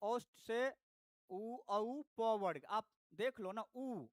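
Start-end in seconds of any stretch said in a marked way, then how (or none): 3.6-4.1 उ sounded alone as "oo"; isolated "oo" for उ, shown to learners; demonstrated vowel. Shown as a demonstration. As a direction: say उ softly with lips pushed forward. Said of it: "उ जैसे बोलते हो".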